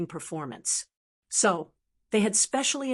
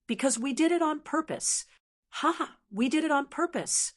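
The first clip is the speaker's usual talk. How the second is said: mocking demon laugh; 7 semitones higher than usual. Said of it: "suddenly roared with laughter".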